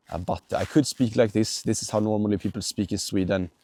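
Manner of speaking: light Swedish-accented English, a touch robotic. Shown as a demonstration. Vlogger demos the typical Swedish accent in English. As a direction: show how Swedes usually sound in English. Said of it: "if I talked like this".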